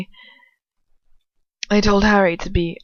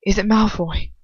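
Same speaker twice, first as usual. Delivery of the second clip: mildly angry, pressing question; a touch of fury; 4 dB louder than usual. Acted. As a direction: push the name with mild anger. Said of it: "he asks furiously".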